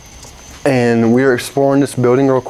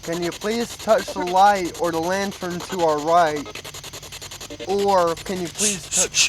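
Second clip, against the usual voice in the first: high, soft, slow whispered plea; hushed plea to a ghost; 5 semitones higher, 10 dB quieter than usual. Real, not acted. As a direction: ask the spirit quietly, almost breathless. Hushed request to spirit.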